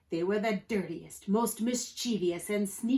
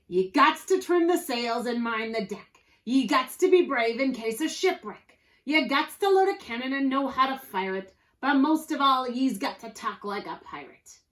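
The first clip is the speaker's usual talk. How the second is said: loud, raised-pitch captain out of patience; Pete, impatient pirate captain; 4 semitones higher, 7 dB louder than usual. A narrator's reading. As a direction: declare the rules forcefully in pirate talk.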